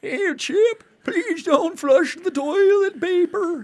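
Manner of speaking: put-on high, slow, creaky old man. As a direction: play a frail old man pleading. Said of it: "In an old man voice, tell Chip".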